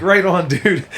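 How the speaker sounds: high, breezy fake agreement; high-pitched right on, dude; mock agreeable. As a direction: play along so you don't have to engage. Fake-agreeing with joking fighter.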